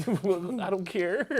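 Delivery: high, slow, loud scornful drawl; mocking don't-care voice; dismissive. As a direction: brush them off with contempt.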